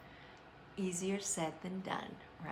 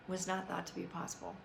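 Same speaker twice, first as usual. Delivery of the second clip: quiet repeat; 6 dB quieter, faster than usual. Real, not acted. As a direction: repeat it softer, letting it sink in.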